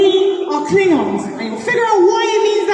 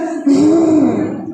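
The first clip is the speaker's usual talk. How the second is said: a breathy gh sound from the throat with the voice box on; voiced throaty breath; 4 semitones lower than usual. Shown as a demonstration. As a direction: push voiced air through the throat. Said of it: "like this".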